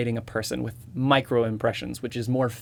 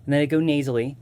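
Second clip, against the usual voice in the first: Stewie Griffin voice; 2 semitones higher than usual. Shown as a demonstration. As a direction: voice shifting into a nasal, accented Stewie. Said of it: "so I'd move my voice up".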